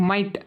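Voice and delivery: "మైట్" with a silent GH; "మైట్" set apart after a long pause; correct pronunciation. Shown as a demonstration. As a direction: say "మైట్" as one syllable. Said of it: "పలకాల్సి".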